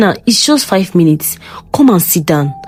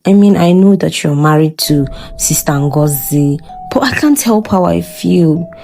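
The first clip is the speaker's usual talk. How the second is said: soft, slow, half-whispered confession; soft seductive voice; 8 dB louder than usual. Acted. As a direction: breathe it slowly to tempt him. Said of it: "she said in a soft voice".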